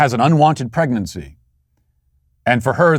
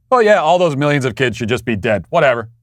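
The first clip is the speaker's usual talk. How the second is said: mocking, dismissive sarcastic quote; 2 semitones higher than usual. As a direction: toss it off with a careless shrug. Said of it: "sarcastic asides".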